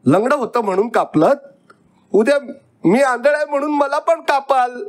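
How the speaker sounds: put-on high, rushed indignant boy; tearful outrage. A narrator's reading. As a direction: protest furiously in a high voice near tears. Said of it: "मी संतापाने आता रडू लागलो".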